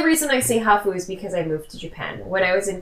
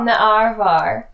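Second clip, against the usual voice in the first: slow drawn Aussie arvo; Australian accent; slower than usual. Shown as a demonstration. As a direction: stretch arvar out slowly. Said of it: "the Australian accent challenge".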